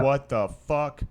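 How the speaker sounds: drawn-out mock disbelief; slow shocked what the fuck. Guy finds the dead body, slow shocked disbelief. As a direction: stretch it out like you just found a body. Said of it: "and then he's like".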